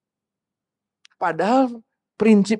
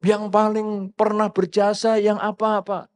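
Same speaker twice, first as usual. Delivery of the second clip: drawn-out, higher-pitched self-importance; boastful ego; 4 semitones higher, slower than usual. Acted. Preacher voicing someone parading past service, boastful. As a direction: play the big ego, stretching the words. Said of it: "mengeluarkan egonya".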